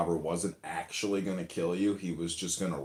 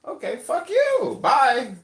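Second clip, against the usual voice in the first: much higher, slow put-on resignation; mock exasperated; 8 dB louder, much slower than usual. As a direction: give up with a huff. Voicing the let-down helper.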